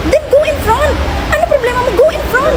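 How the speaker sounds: high, sharp yell at a line-cutter; retold shouting. Snapping at the woman who cut the line, high yell. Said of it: "nagsigaw na ako".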